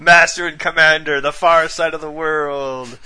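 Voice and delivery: loud, slow epic trailer announcer; movie trailer voice. Pretend. Movie trailer title read.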